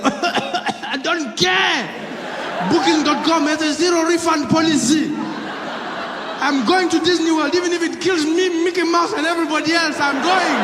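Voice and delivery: very high, loud comic screech; defiant mock shouting. Imagined infected passenger refusing to cancel Disney, frantic mock yelling. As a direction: yell it in hammed-up frenzy.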